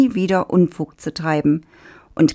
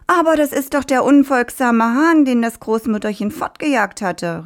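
farmer calling out; 7 semitones higher than usual. Acted. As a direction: shout it across the field to the workers. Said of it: "rief der Bauer". (lauter, hoher Zuruf des Bauern)

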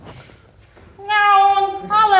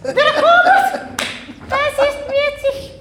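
incredulous; 9 semitones higher than usual. Acted. High laughing disbelief.

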